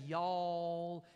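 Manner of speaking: drawn-out Southern y'all; a stretched Southern vowel; Southern twang. Shown as a demonstration. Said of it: "like, this Southern twang".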